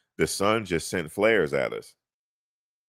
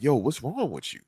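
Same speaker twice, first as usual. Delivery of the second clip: mock passerby; 7 semitones higher than usual. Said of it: "people like".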